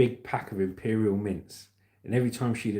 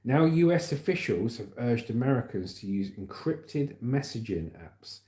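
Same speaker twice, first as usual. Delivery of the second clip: news read. Real, not acted. Reads news story aloud.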